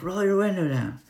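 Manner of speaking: gruff stranger voice. Retold or imitated. Landowner orders the driver to roll down window, mock stern. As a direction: bark the order like the angry landowner. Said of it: "He's like".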